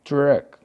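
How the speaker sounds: "Truck" said alone, starting on the T; T sound demonstrated. Shown as a demonstration. Teacher showing truck starts with T, demonstrative. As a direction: let the opening T of "Truck" be heard. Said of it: "Escutou o som de T".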